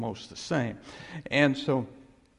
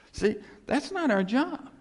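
much higher and louder, punching not; emphatic declaration; 10 semitones higher, 4 dB louder, slower than usual. Acted. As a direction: drive the point home hard. Preacher hammering his point.

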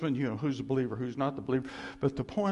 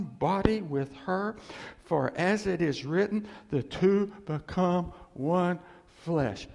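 scripture reading; 2 semitones higher, slower than usual. Acted. Reads scripture slowly.

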